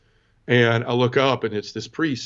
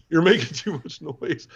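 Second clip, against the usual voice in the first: higher, drawn-out mock complaint; complaining churchgoer; 5 semitones higher, slower than usual. Churchgoer to the man crying at mass, mock complaint. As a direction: imitate someone shushing a noisy crier.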